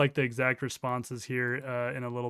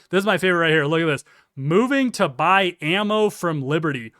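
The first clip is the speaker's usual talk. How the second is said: excited; 3 semitones higher, 8 dB louder than usual. Real, not acted. Amused at opponent's excuse.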